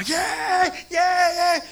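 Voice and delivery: gritos agudos y alegres de niño imitados; niño feliz jugando. Retold or imitated. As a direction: imita a un niño que chapotea feliz, gritando más agudo. Imitating a happy child playing in water. (niño contento jugando en el agua, grito agudo imitado)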